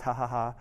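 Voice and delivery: a deadpan ha ha ha, not really laughing; mock laugh read out plainly; flat spoken laugh. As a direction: say the laugh flatly as words. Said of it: "I laughed".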